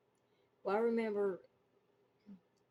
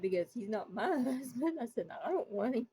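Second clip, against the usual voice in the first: higher, giggly retold objection; laughing protest; 5 semitones higher, 3 dB louder than usual. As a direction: protest through bubbling laughter. Protests to friend, breaking into laughter.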